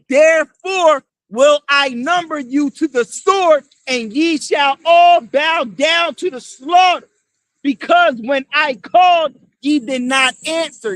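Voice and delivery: slow, booming preacher's reading of scripture; scripture declaimed. Acted. Street preacher reads prophecy to the crowd, slow booming declamation. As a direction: proclaim each word like the prophet himself.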